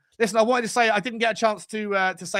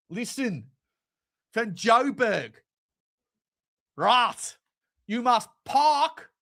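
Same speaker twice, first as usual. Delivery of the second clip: hammed-up South African accent, higher and slow; 6 semitones higher, slower than usual. Mimicking a viewer from Joburg in a slow, hammed-up South African accent. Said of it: "got to work on the accents".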